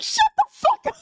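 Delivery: very high squeal breaking into laughter; flustered squeal. Retold or imitated. Shushing her excited friend, flustered high squeal.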